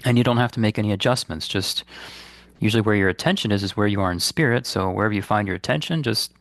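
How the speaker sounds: calm, unhurried guidance with long pauses; guided meditation. Real, not acted. Meditation teacher guiding listeners to release guilt, calm and unhurried. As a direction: lead listeners gently inward, leaving space between phrases.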